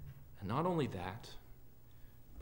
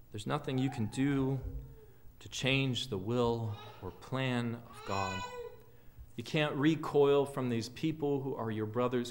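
matter-of-fact. Retold or imitated. Paul telling the church about the Gentiles, matter-of-fact. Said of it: "He says it quite matter-of-factly".

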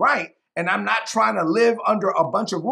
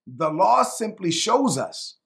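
slow, deliberate scripture reading with pauses between phrases; measured reading, letting each phrase land; real slow reading. Real, not acted. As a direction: read it phrase by phrase, unhurried. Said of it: "I'm gonna read this real slow".

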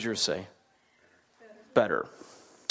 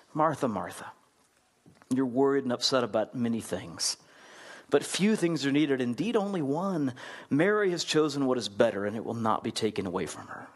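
gentle; 2 semitones lower than usual. Acted. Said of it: "It's very gentle".

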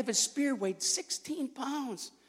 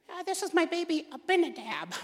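proud parent; 8 semitones higher than usual. Pretend. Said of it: "better than Abinadab".

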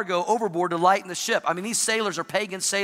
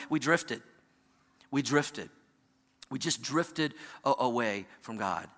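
quiet, sorrowful; 7 semitones lower, 8 dB quieter than usual. Acted. Pastor hushing the church, quiet and sad. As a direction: drop to a soft, low lament. Quiet repeated lament in sermon.

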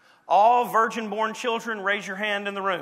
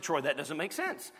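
softer, lower, a puzzled listener's objection; mock listener; 4 semitones lower, 8 dB quieter than usual. Preacher voicing a doubting listener, soft and puzzled. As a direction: voice the congregation's doubt, quietly. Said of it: "your head's just perked up and you said".

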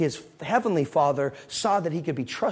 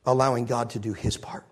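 preaching loud; 6 dB louder than usual. Real, not acted. Preaching climax.

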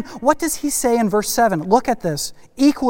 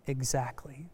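very soft, low reply; quiet confirmation; 6 semitones lower, 14 dB quieter, slower than usual. Retold or imitated. Teacher answers the kid's objection, softly and low. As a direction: let it drop softly after the outburst. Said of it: "And Billy Strachan said".

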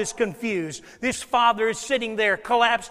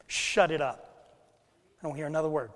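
parent's command; 6 semitones lower, 6 dB quieter than usual. Retold or imitated. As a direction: drag out a stern parental warning. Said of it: "they'll make your life hell".

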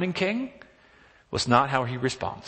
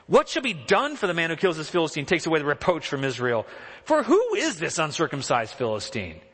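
incredulous; 3 semitones higher than usual. Retold or imitated. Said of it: "this kind of incredulous voice that David has".

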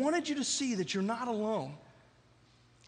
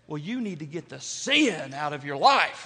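mock Southern hick accent, lower-pitched; 6 semitones lower than usual. Southerner lecturing a struggling friend, hick accent. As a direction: imitate a country Southerner's accent. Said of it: "say it with that little hack accent".

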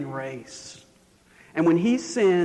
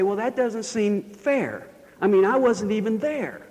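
mock objection; 6 semitones higher than usual. Objector voiced by preacher.

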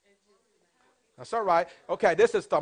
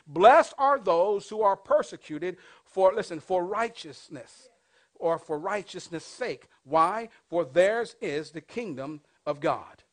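slow, louder, weighty reading of the verse; solemn scripture reading; 4 dB louder, slower than usual. Acted. Pastor reading the Beatitude to the congregation, slow and solemn. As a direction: lay each word of the Beatitude down slowly.

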